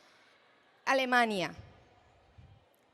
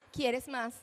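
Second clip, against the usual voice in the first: put-on child echoing. Shown as a demonstration. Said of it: "tenemos también la ecolalia".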